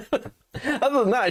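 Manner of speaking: words squeezed out through a laugh; chuckling while you say it. Real, not acted. Streamer to chat about ex, laughing while talking. Laughing at ex's karmic justice.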